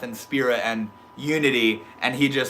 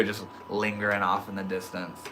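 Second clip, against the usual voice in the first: ordinary talk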